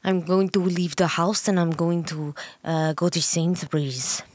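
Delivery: halting copy of a Russian accent; attempted Russian accent. Shown as a demonstration. Partner copying host's accent, shaky attempt at Russian accent. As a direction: badly imitate a Russian accent. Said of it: "I have to impersonate it".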